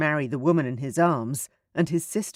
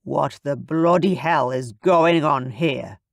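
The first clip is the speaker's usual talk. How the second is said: slow, louder Scottish demand; Scottish accent; 5 dB louder than usual. Acted. John bursts in on the couple, Scottish and louder. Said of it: "He knew that Scottish accent".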